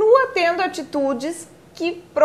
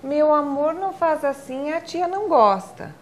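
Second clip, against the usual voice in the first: imitating a soft mother; 3 dB quieter than usual. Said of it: "algumas mães ... diz assim".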